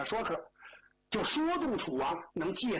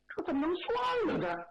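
alarmed cry; 11 semitones higher than usual. Acted. Minister alarmed at giving up.

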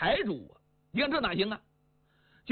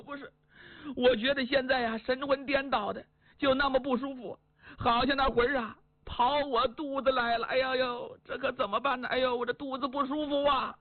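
fretful wife; 3 semitones higher than usual. Acted. Wife tells husband and son the rooster scared her, fretful. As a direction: wail it like a spooked wife. Wife Zhao complains of stomach.

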